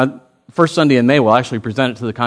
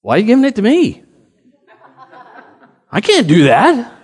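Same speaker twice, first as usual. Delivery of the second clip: overwhelmed disbelief; 9 semitones higher, 4 dB louder than usual. Retold or imitated. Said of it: "we look at that plan and go".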